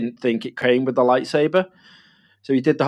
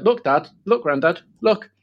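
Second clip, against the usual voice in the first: put-on high excited little-kid voice; child showing off a toy; imitating toddler; 5 semitones higher than usual. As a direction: chirp it like an eager toddler. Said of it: "to be like".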